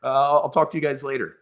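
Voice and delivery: high, excited, rushing to hang up; excited quote. Retold or imitated. Wife excitedly ending the call because her husband is calling back, in a high, quick voice. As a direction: squeal it like a friend whose husband is calling back. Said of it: "She's like".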